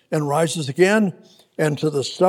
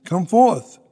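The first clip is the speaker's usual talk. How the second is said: calling Lazarus out with a raised voice; a touch of a loud summons; loud cry. Acted. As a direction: call him out of the tomb. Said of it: "he cried with a loud voice".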